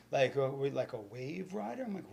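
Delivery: ordinary talk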